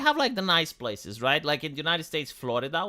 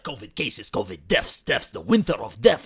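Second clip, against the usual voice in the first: mock news alarm; 6 semitones lower, 5 dB louder than usual. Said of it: "C N N was like".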